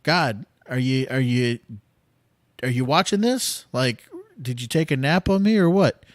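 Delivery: half-joking angry challenge to the sky; exasperated outcry at God. Retold or imitated. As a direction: vent at God like he's asleep on the job. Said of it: "and it's like".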